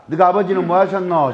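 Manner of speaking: 너가 아버지는 뭐 하셨노 in a Gyeongsang accent with a fall at the end; a Gyeongsang greeting with a slight laugh; 경상도 사투리로 묻기. Shown as a demonstration. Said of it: "인사 이렇게 한번 해봅시다".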